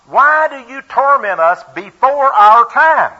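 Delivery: high, loud and slow anguished cry; devils crying out. Acted. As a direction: wail it out like a tormented demon. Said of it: "they cried out".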